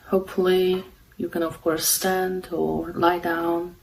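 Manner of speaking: calm, unhurried meditation guidance with long pauses; guided meditation. Real, not acted. Meditation host guiding listeners to follow the breath, calm and unhurried. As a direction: guide them gently, leaving long silences between phrases.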